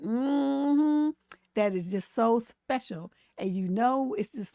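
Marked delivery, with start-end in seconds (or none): 0.0-1.1 a louder knowing church-lady hum; imitating old black woman. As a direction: hum like a grandma judging you. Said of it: "the way that they do that".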